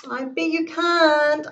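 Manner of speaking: high, loud challenge; playful shouted dare; shouting. Acted. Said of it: "I shouted".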